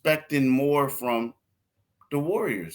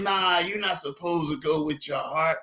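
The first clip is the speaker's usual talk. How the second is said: higher-pitched imitation of an indignant relative; mock scolding; 5 semitones higher than usual. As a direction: playfully threaten to disown him. Voices relative scolding him.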